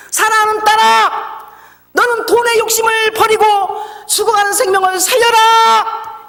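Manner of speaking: loud, high, slow proclamation; powerful voice of God. Retold or imitated. God calling the fainted daughter after the crash, powerful slow command. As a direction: command it slowly like a divine decree. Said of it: "이런 강력한 음성을 제가 들었습니다".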